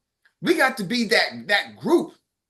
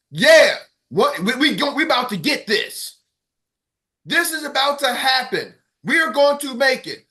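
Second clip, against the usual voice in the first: hype call; 5 dB louder than usual. Retold or imitated. Hyping up the team, retold.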